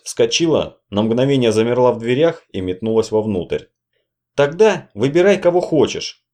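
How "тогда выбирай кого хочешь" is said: strained voice. A narrator's reading. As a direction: push the words through a tight throat. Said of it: "сдавленный голос".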